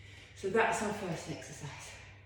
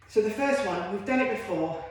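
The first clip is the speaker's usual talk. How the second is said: breathless between reps; puffing while talking; out of breath; 4 dB louder than usual. Real, not acted. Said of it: "I'm out of breath, see?".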